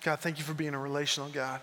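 hushed, earnest prayer voice; closing prayer. Acted. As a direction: pray quietly over the congregation. Pastor closes in prayer.

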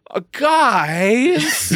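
high, strained dying zombie. Retold or imitated. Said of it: "I read it like the zombie was going".

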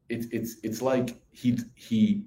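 halting, slow false starts; stumbling for words. Retold or imitated. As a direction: act out groping for the answer. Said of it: "I literally was stumbling like this".

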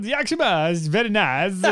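lightly voiced Borat-style accent. Joking after the slide into Borat, Borat accent. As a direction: slip into a comic Borat accent. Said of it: "while my Borat came out".

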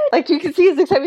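laughing through the words; amused, laughing aside. Real, not acted. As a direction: giggle as you tell it. Laughing while retelling.

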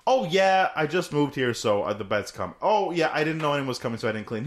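overcompensating excuse. Retold or imitated. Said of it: "would overcompensate".

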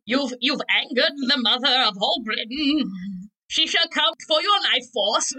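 hammed-up ominous prophecy; theatrical voice of doom; mock doom herald. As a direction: warn of royal vengeance in mock grandeur. Mock doom warning about the Queen.

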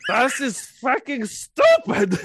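laughing. Pretend. Mocking tourist German.

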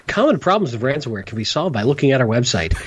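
lightly voiced hold message; phone menu voice. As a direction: read it like a hold recording. Mock phone hotline recording.

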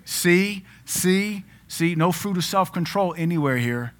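mock God. God judging at the throne.

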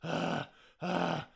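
soft mock panting, out of breath. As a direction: huff a couple of quiet breaths like after the stairs. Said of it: "I'm just in the background going".

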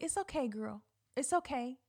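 soft, soothing pep talk to oneself; acted gentle comforting, kept quiet; self-reassurance. Nervous speaker calming herself in her head, reassuring. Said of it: "to myself in my head".

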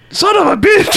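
very high furious yell; angry shout. Retold or imitated. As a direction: scream out the curse. Balloon shot, outburst.

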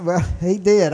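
normal talking voice

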